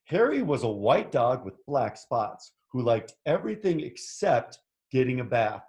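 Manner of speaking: animated picture-book narration; story read to children. A narrator's reading. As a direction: read it out with lively swoops for young listeners. Reads picture book aloud.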